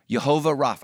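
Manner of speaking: Jehovah Rapha, with the r rolled toward Hebrew; Hebrew pronunciation. Shown as a demonstration. Showing the church how Jehovah Rapha sounds, careful. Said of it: "this is how it sounds".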